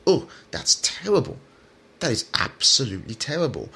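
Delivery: sarcastic horror, starting high; mock outrage. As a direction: pretend to be lightly scandalized. Sarcastically mimicking outrage at the casting.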